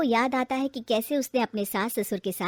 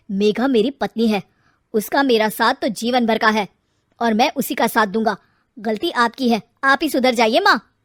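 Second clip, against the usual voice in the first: firm stand; 2 semitones lower, 7 dB louder than usual. Acted. Son sides with wife.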